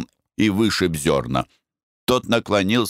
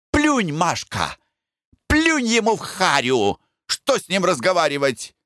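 higher woman's voice, calming; soothing woman; 13 semitones higher than usual. A narrator's reading. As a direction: coax her, settle her down. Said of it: "успокаивает третья женщина".

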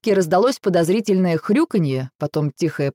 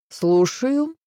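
velvety phone greeting, lifted high; smooth, higher-pitched lilt; velvety singsong; 6 semitones higher than usual. A narrator's reading. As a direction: sing it out invitingly to a client. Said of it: "пропела я бархатным голосом".

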